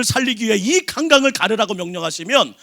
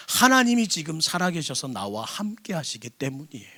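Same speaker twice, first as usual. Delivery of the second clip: hushed; 4 semitones lower, 7 dB quieter than usual. Real, not acted. Intimate confession in sermon.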